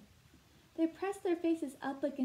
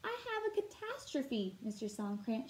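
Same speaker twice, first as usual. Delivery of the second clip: in a dither. Acted. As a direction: burst in flustered and pitched up. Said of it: "all in a dither".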